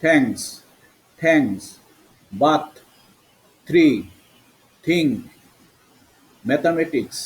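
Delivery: "থ্যাঙ্কস, বাথ, থ্রি" with th as aspirated t; word-by-word demo, "থিঙ্ক" starting with থ. Shown as a demonstration. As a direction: separate each word, "ম্যাথমেটিক্স" with a থ sound. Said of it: "এবার করছি থ".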